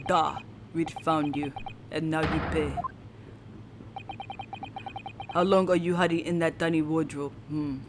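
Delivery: low, softened Russian interrogator; attempted Russian accent. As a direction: question the captive in an amateur Russian accent. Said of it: "my Russian accent is totally going to be a bust".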